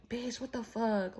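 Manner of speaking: slow, mock-tearful disbelief, a touch of a sob; imitating crying. Friend in tears after being read, mock crying. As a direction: her friend's teary shock, lightly acted. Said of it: "Like, just crying".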